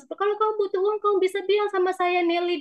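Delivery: exasperated cry, acted out at moderate volume; imitated tearful yelling. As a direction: retell her upset outburst, pitched high. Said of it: "Dia sampai teriak-teriak kepada saya".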